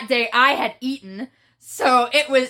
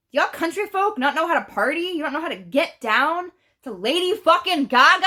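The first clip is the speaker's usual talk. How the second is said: incredulous; 4 semitones higher than usual. Retold or imitated. Retold exasperation at a tame crowd.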